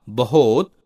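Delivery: बहुत said 'bahot' with an o; mispronounced word. Shown as a demonstration. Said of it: "शब्दों की वर्तनी अशुद्ध है". (बहुत का गलत उच्चारण 'बहोत')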